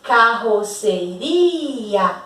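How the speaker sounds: slow carroceria split into syllables, the rr strong. Shown as a demonstration. Teacher separating carroceria into syllables for the class, very slow. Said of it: "Hiato é igual a divórcio".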